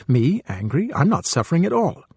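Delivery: imitating someone arrogantly denying their anger; defensive denial. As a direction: brush it off with a proud denial. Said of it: "We may feel arrogant and self-righteous".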